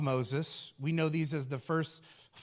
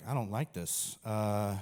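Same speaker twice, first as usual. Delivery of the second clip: petulant whine; 8 semitones lower, 3 dB quieter than usual. Pretend. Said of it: "And then you're just like".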